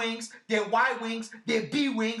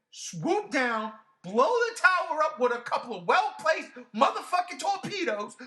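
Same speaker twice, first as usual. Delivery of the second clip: high exasperated shout; shouted rant; 6 semitones higher than usual. Real, not acted. Yelling at the film's logic in disbelief. Ranting about the plot.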